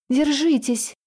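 put-on a high shout to the children; крикнуть детям; urgent shout. A narrator's reading. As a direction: call out to hold on. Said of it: "крикнула детям".

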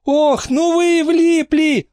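высокий медленный злорадный голос со смешком; позлорадствуй, посмеиваясь; сквозь смех. A narrator's reading. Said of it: "проговорила она сквозь смех". (насмешливо, сквозь смех)

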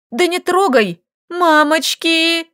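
panicked high cry; terrified pleading hostage. A narrator's reading. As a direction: shriek it in panic. Scared of monsters.

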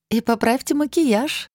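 high, slow, teasing laugh in the voice; playful mocking lilt; laughing tease. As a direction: tease the girls through a laugh. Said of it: "рассмеялась Лилит".

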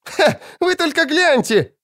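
high, giggly exclaim; laughing girl. A narrator's reading. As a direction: burst out, delighted by her mistake. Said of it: "залилась хохотом". (высоко, со смехом)

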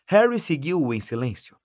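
ordinary delivery

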